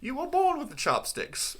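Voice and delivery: high, slow hammed-up villain; mock villain line. Friend riffing on the villain monologue, hammed up. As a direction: drawl it like a cartoon villain.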